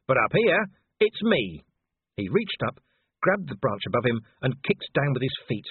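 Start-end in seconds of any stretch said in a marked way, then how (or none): 0.1-1.6 panting. Acted. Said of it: "Vimes panted".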